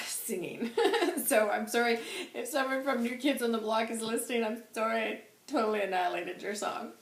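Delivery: loud, high, amused apology; laughing. Real, not acted. Apologizing to a band for botched singing, loudly amused.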